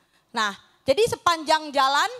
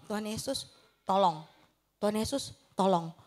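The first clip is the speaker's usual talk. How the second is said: softer, lower, pleading prayer; soft whispered plea; 6 semitones lower, 7 dB quieter than usual. Retold or imitated. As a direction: murmur the prayer under your breath. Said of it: "kakak cuman ngomong". (doa lirih memohon pertolongan)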